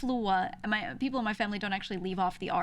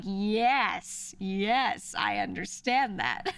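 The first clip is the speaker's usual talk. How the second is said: amused agreement; 3 dB louder, much slower than usual. Retold or imitated. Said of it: "I'm like".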